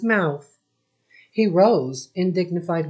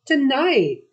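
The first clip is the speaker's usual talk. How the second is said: mock shout; 8 semitones higher, 4 dB louder than usual. A narrator's reading. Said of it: "Even Yusuf shouted".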